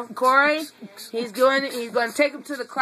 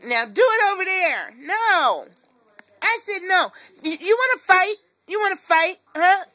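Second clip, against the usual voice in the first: louder, firm scold at a naughty dog; 4 semitones higher, 4 dB louder than usual. Real, not acted. Owner scolding her dog over its toy, firm and louder. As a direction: put your foot down, mock-tough.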